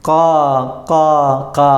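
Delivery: long, separated caws; teacher's demonstration of crow cawing; imitated crow caw. Shown as a demonstration. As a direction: mimic a crow calling. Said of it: "കാക്ക എങ്ങനെ കരയുക?".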